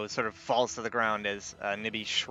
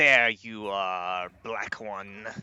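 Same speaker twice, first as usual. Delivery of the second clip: loud, slow, drawn-out snarl; 5 dB louder than usual. Voicing Algolos as he spots where the blast came from: Algolos snarling. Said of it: "and just sort of snarls".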